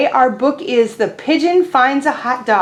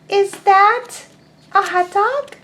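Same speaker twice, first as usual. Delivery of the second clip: high, small duckling voice; a tiny curious duckling; 9 semitones higher, slower than usual. Acted. Teacher voicing the duckling asking Pigeon, high and small.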